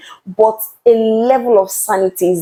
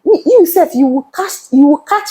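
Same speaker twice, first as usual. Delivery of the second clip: high, fast, incredulous exclamation; exasperated reaction; 8 semitones higher than usual. Retold or imitated. Reacting to someone's shameless words, high and fast. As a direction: shoot the voice up in disbelief. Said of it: "you be like".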